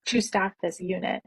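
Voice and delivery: slow, deliberate, every word laid out; slow cold fury at the manager; firm slow confrontation. Retold or imitated. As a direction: tell the manager off, steady and measured. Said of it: "I laid it out on her".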